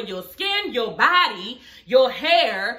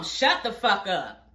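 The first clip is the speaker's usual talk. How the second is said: a dismissive low mutter, half-acted; low, slow brush-off; 4 semitones lower, slower than usual. Quoting Iris shutting them up, slow and low. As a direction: drop it low and drag it out.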